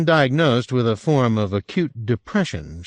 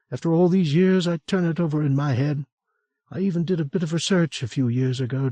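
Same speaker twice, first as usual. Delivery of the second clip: higher woman's voice, careful and worried; Franny, cautious; 6 semitones higher than usual. A narrator's reading. Franny warns Will about Sherwood, higher worried voice. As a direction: protective of her brother.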